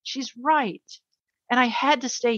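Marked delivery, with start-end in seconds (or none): 0.0-0.8 fighting back tears over her daughter's words; getting emotional. Real, not acted. Mother recalling her daughter's plea, choked up. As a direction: voice rising with emotion, a slight laugh. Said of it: "I don't mean to get emotional".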